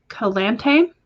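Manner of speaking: "Calante" with stress on the middle, ending like "tay"; careful pronunciation. Shown as a demonstration. Host checking a viewer's name, "Calante" carefully said kuh-LAHN-tay. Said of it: "you personally pronounce your name as".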